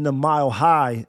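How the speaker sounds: High leaned on with a falling tune; a pun stressed on High. Shown as a demonstration. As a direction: punch the word High in Mile High. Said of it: "Emphasis on the word high city".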